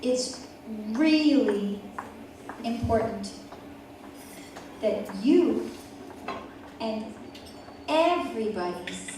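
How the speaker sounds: put-on quiet, sincere plea to a child; earnest mom. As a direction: say it softly, meaning every word. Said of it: "And she says".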